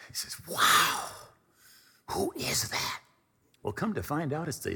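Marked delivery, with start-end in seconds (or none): 0.5-3.0 breathy, amazed stage whisper; whispered amazement. Retold or imitated. Smitten roommate asking about a woman across the room, amazed whisper. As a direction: gasp it out, instantly smitten.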